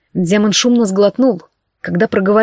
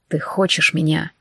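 lower, softer hoarse demon voice; husky rasp; 5 semitones lower, 5 dB quieter than usual. A narrator's reading. The demon rasps to Olivia, low and muffled. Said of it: "Глухо прохрипел демон".

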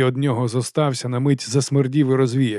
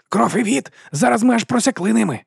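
eager wolf; 9 semitones higher than usual. A narrator's reading.

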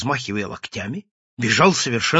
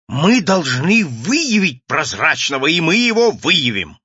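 higher, slow and insistent resolve; emphatic vow; 5 semitones higher, 5 dB louder than usual. Acted. Vowing to his ally to expose the invisible man, emphatic. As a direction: declare it with rising force. Acted vow, high and loud.

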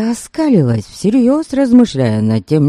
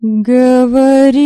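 slow, loud growl; 9 semitones higher, 4 dB louder, slower than usual. A narrator's reading. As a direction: snarl the order. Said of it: "прорычала я".

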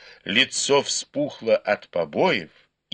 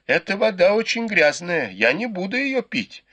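pleading; 9 semitones higher than usual. A narrator's reading. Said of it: "взмолился Сюэпань".

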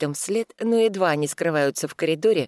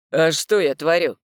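calm feigned puzzlement; 6 dB louder than usual. Acted. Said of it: "Спокойно, но без наигранного недоумения".

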